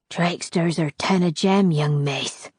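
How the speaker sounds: old crone in a lightly voiced thick southern accent; a hint of a southern accent, low and sly. A narrator's reading. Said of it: "her accent thick and southern".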